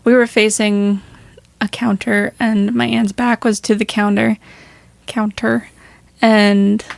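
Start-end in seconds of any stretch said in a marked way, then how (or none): 1.7-2.3 "counter" with the ter fully pronounced; over-enunciated ter. Real, not acted. Host setting the scene in the kitchen, "counter" with enunciated ter. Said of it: "You're enunciating the ter". 5.1-5.7 "counter" with a crisply enunciated ter; over-enunciated ter. Real, not acted. Host repeating where the candle sat, "counter" with enunciated ter. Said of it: "You're enunciating the ter".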